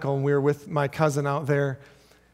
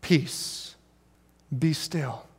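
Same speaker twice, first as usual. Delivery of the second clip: calm command; 2 semitones lower, 6 dB quieter, much slower than usual. Retold or imitated. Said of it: "he says".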